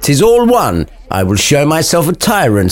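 hammed-up tough talk, pitched high; trying to sound hard. Samson boasting to Gregory, trying to sound hard. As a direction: play at being a hard man. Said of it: "still trying to sound hard".

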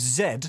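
Zed with a clear final d; corrected to Zed. Real, not acted. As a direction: say Zed, rhyming with bed. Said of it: "you've got me saying it now".

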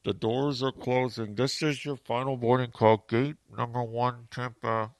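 lightly imitated gate announcer, slow and formal; airport boarding announcement. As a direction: read it like a terminal PA call. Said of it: "and I hear".

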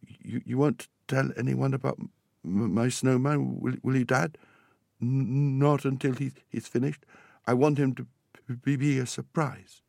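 put-on storybook boy stammering a secret request; stammering, pleading boy. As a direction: ask shyly, stumbling on first sounds.

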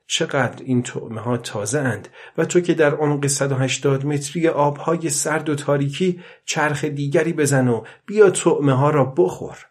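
put-on old man sweet-talking a fish below; a fond, coaxing old fisherman. Old man to the fish, coaxing it to eat.

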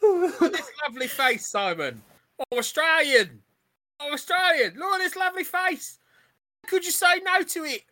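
high-pitched doting mum; cooing plea. Acted. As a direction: plead sweetly, pitch climbing as you go. Mum coaxes Simon with son's face.

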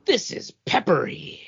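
put-on wide-eyed child tasting something spicy; kid's amazed reaction. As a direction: squeal it like a surprised little boy. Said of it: "he was like".

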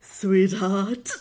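sultry voice. Acted. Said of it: "she asked in that Levo chocolate voice".

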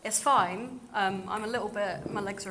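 breathless after running from dance; a little winded, catching breath. Real, not acted. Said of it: "I have literally just run from dance".

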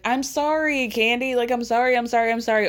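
singled-note, over-and-over mock sorry; imitated repeated apology. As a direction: pile the apologies on insistently. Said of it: "over and over again".

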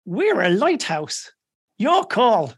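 slow, deadpan then rising; dry punchline. Acted. The lighthouse answers the captain, slow dry punchline. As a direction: deliver the lighthouse line dead dry.

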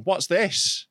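mock-curious stranger; retold pointed question. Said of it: "Like that to him".

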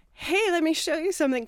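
high, put-on "hey" to lure someone away; acted-out breezy stalling; mock-casual distraction. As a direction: pitch it up, improvising a diversion. Acts out distracting Carl at home.

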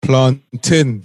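low, drawn-out plantain in imitated Nigerian accent; mocking his Nigerian accent. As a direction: imitate a Nigerian saying "plan-tin", slowly. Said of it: "you're mocking his accent".

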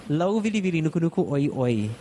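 "Lau vili vili nuku nuku oi oi" run together at speed; said fast. Shown as a demonstration. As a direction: rattle the fish name off in one breath. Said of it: "I'll say it fast first".

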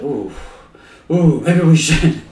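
imitated worried dithering; mock scared. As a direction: play at being spooked, slowly. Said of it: "really scared that it actually knows the future".

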